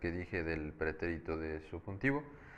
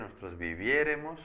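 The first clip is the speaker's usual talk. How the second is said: "viviéremos" stressed on the first E, viÉ; 3 semitones higher than usual. Shown as a demonstration. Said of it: "acento en la E".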